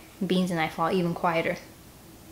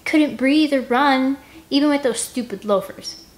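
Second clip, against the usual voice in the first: lightly voiced mocking wheeze, slow; mock his breathlessness; 6 semitones higher, 4 dB louder than usual. Scarlet mocking Finn, a hint of wheezing mockery. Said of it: "she wheezes mockingly".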